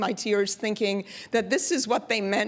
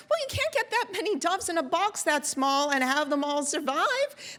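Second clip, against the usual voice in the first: lightly voiced wife, higher pitch; a touch of matter-of-fact protest, pitched up; dove handler wife; 6 semitones higher than usual. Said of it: "And she says".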